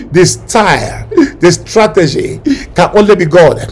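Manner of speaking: prophesy with awe; prophecy. Acted. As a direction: pastor prophesying over the church. Prophesying in low voice.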